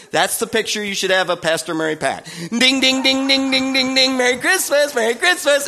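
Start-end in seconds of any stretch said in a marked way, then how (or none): 2.5-5.7 joyful bell ringer. Retold or imitated. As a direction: chime and greet like an overjoyed ringer.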